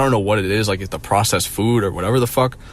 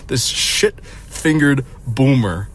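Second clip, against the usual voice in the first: mocking disgust; 3 semitones higher, much slower than usual. Real, not acted. Mocking the boomer with fingernail poop.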